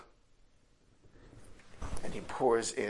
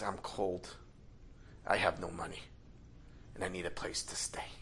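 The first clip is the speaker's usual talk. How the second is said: weak pleading beggar; 4 semitones lower, 9 dB quieter than usual. Acted. Poor beggar begging at hotel door.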